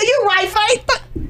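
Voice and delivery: drawn-out, slowly conceding; slow, resigned agreement; slow reply. Retold or imitated. She slowly concedes to him, drawn-out reply.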